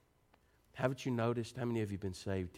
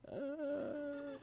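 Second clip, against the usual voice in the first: put-on milk-drunk baby sigh; 8 dB quieter than usual. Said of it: "they're looking at you going".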